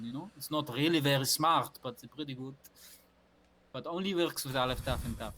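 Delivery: put-on light Israeli accent, pushy sales patter; hint of an Israeli accent selling a phone plan; Israeli salesman accent. A telephone salesman pitching Aleph Taf and Taf to a listener, in a light Israeli accent. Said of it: "an Israeli telephone salesman".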